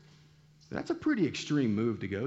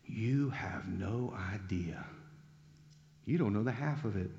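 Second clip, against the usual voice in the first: mild restrained anger; 4 semitones lower, 5 dB quieter than usual. Retold or imitated. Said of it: "flared nostril Jesus".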